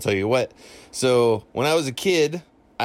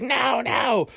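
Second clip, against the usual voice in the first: her regular voice; 11 semitones higher than usual. Retold or imitated. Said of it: "in her regular voice".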